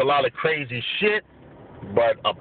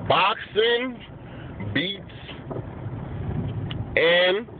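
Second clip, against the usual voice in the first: slow careful repeat; slower than usual. Real, not acted. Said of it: "Make sure I said it right".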